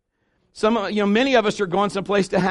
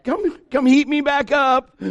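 a hammed-up leftovers voice, a loud Bruh then drawn out; talking leftovers; 4 semitones higher, 7 dB louder, much slower than usual. Preacher voices leftovers tempting dieters, mock and loud. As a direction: tempt him like food calling from the fridge. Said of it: "those leftovers are going".

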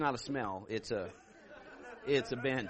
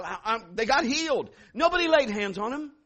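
ordinary talk, nothing marked

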